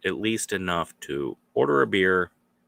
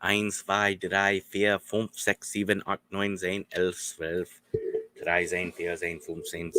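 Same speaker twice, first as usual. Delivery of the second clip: counting in German. Shown as a demonstration. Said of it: "I can count".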